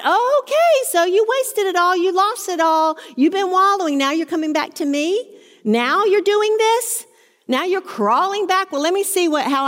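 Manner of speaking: a preacher hamming up a bitter, scolding father; mock scornful father. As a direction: play the father who sneers "I told you so". Imagined scornful father's retort.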